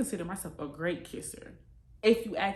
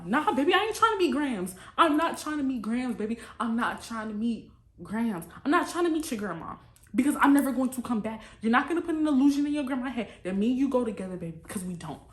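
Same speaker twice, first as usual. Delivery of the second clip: raised, animated mock protest; emphatic refusal; 3 semitones higher, 4 dB louder than usual. Woman turning down date's offer to meet grandma, emphatic refusal. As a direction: protest with higher pitch and pushed emphasis.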